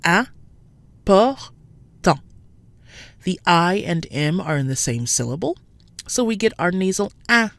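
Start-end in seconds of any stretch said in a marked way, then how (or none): 0.0-1.4 "important" very slow, higher, three syllables; slow French "important"; French important slowly. Shown as a demonstration. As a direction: draw out "important" beat by beat. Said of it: "three syllables".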